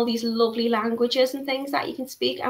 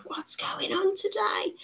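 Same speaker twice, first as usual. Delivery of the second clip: puzzled whisper to herself; whispered aside about the mic; 10 semitones higher, 7 dB quieter than usual. Real, not acted. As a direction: breathe it out, bewildered.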